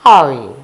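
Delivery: "Oi" said as a short oy sound. Shown as a demonstration. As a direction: say "Oi" like the French word oui. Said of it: "we say, we say".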